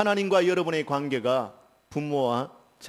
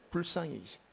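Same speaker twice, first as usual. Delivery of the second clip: 불쌍히 여기신다 repeated much softer; 불쌍히 여기신다를 조용히 되뇌듯; quiet echo; 3 semitones higher, 8 dB quieter, faster than usual. Shown as a demonstration. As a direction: softly repeat 불쌍히 여기신다 to let it sink in. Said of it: "그래놨어요".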